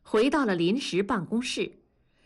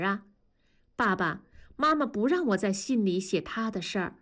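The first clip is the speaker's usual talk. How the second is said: put-on child's letter, often pitched high; lightly voiced child reading a letter home; child writing to father; 3 semitones higher than usual. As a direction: earnestly confide in a parent like a child.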